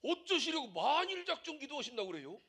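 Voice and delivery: lightly voiced worried phone caller; imitating a fretting caller. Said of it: "어떤 분이 나한테 전화 와갖고".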